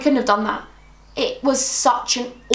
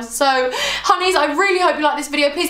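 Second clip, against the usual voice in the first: bright sign-off; 4 semitones higher than usual. Real, not acted. Vlog sign-off to viewers.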